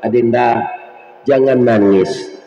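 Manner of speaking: low, slow reassurance to someone crying; gentle consoling. Retold or imitated. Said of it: "terdengar suara di belakang".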